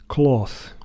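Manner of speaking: American "cloth" with a long open aw; American cloth vowel; American accent. Shown as a demonstration. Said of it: "cloth is".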